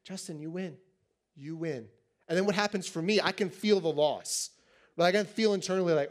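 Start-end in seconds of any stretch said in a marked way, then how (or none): 0.0-1.9 much softer, gentle "Justin, you win"; sweet concession. Retold or imitated. Wife sweetly conceding to her husband, soft and gentle. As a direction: hand him the win softly and sweetly. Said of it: "She may even be really sweet".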